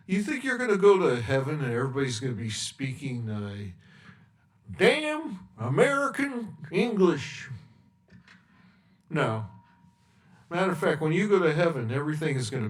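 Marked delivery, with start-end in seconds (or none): 4.8-7.5 mock outrage. Mocking the idea, rising shout.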